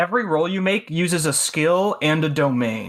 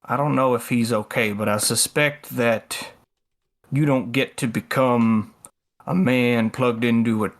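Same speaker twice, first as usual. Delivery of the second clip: Ledger; 4 semitones lower than usual. Acted. Ledger explaining the plugged-in man to Halo, low measured voice. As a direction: lower it and pause between phrases.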